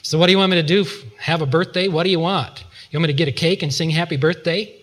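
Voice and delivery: retold snide, put-upon retort; nasty tone. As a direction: snap back at a friend, mildly nasty. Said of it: "responded in a nasty tone".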